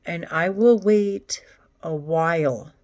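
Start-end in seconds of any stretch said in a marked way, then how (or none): 1.8-2.7 whisper. Real, not acted. Drawn-out pause, whispered.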